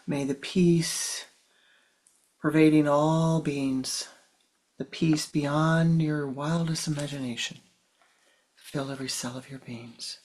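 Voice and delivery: spoken prayer building then softening; prayerful invocation. Real, not acted. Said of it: "invocation of peace".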